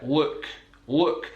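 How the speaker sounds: "look" with a dark L; L in "look" from the back of the mouth, tongue down. Shown as a demonstration. Teacher giving another example word, dark L. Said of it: "it's a dark L".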